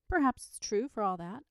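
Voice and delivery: lifted, encouraging reply. A narrator's reading. Older child answering Charlotte's doubts, encouraging. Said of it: "I replied encouragingly".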